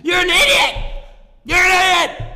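mock angry self-scolding; yelling at himself. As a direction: berate yourself like a boss. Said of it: "I'm just yelling at myself".

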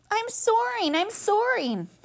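high, thrilled little cry; excited squeal. Acted. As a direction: crow with pure delight. Gosling first flies.

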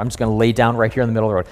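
a hint of a donkey, words tumbling out fast; rushed fed-up donkey. Donkey refusing Balaam, rattling it off fast. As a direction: gabble it like a donkey who's had enough. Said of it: "The donkey's like".

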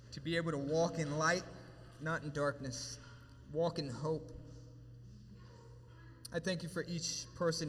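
prayer. Acted. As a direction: pray over the room, humbly and steadily. Closing prayer.

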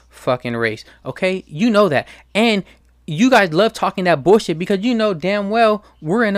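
really fed up and lecturing them hard; angry rant. Real, not acted. Ranting at third-party voters.

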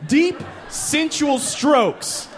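high, slow, exaggerated instruction; mock coaching. Urging Jeff how Becky likes it, high hammed-up voice. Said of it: "And you're like".

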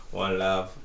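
One Love again with a light Jamaican accent. Shown as a demonstration. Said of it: "Is that Jamaican enough for you guys?".

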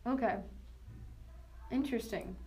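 talking while quietly eating lunch; chewing while talking. Real, not acted. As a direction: speak around a bite of food. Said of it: "I'm trying to eat lunch at the same time extremely quietly".

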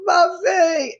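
high, loud frightened cry; panicked cry. Retold or imitated. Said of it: "and he goes".

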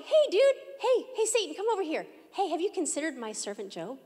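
a hint of a laid-back dude calling out; lightly voiced chummy Lord, hey dude; mock casual buddy voice. Preacher mocking a wrong picture of the Lord, casual hey dude. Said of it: "The Lord wasn't sitting here going".

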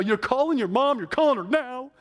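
high, loud retold command; urgent order. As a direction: order it done right now, loudly. Retold urgent order to phone mom.

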